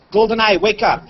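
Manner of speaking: same wake word spoken calmly; voice command. Shown as a demonstration. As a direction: say the device name plainly. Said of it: "Then I launch the camera app".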